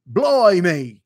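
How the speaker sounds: slow, exaggerated mock British accent. Shown as a demonstration. Answering a viewer about doing accents, hammed-up British accent. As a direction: draw it out in a hammy British voice. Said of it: "doing accents?".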